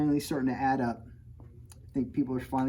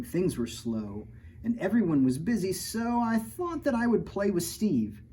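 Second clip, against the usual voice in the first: lively picture-book read-aloud; reading to children; 3 semitones higher than usual. A narrator's reading. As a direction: read the rhymes to a kid audience. Reads rhyming picture book.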